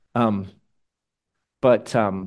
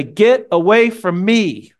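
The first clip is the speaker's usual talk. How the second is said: mock rejection; 8 semitones higher, 6 dB louder, much slower than usual. People rejecting God's mercy.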